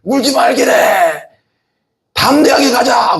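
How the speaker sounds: high, ringing shout of courage; mother's shout. Retold or imitated. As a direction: cry out boldly, drawing out the last words. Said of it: "그랬대". (담대하게 외치는 엄마의 높은 고함)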